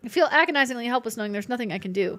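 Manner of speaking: lightly voiced professor reading his diary; a touch of a fretful professor's diary; reading diary aloud. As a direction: read the entry like a worried old scholar. Reads in-game diary aloud.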